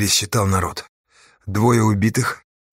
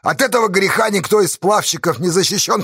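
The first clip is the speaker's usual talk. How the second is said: earnest admission; 10 semitones higher than usual. A narrator's reading. Astash admits he may fail.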